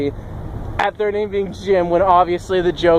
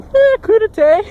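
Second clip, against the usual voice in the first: very high, louder comic squeal of a word; hammed-up French reply; 5 dB louder than usual. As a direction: toss out a silly mock-French answer. Joke French answer to how feeling.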